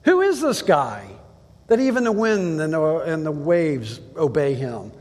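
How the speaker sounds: astonished disciples. Retold or imitated. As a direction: ask it in disbelief. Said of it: "Their question was".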